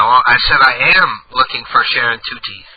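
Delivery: ordinary delivery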